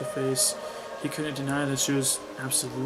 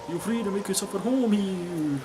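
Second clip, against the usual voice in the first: hammed-up, higher attempt at a French accent; bad French accent; 6 semitones higher, 4 dB louder than usual. Priest welcomes girl into church, bad French accent. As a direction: overdo a failed French accent, pitched up. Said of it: "I can't even do a French accent".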